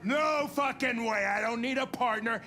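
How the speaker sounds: angry shout. Acted. Hank refuses android partner.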